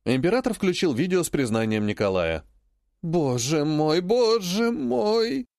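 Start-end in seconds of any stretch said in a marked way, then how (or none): 3.0-5.5 slow, wailing lament, rising high; tragic lament. A narrator's reading. Grandmother laments her grandson's confession, slow wailing. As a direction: moan it like a tragedy queen. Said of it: "Трагически понизив голос, запричитала".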